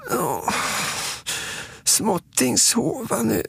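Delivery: put-on small, high child voice; Småtting. A narrator's reading. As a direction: toddler baby talk, high-pitched. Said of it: "säger Småtting".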